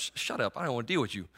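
inner voice. Retold or imitated. Preacher voicing his own thoughts dismissing God, whispered. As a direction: hiss it to yourself, barely voiced. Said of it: "words that went through my head".

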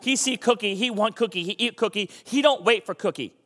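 a hint of a cookie-craving creature; Cookie Monster. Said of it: "Cookie Monster is Cookie Monster".

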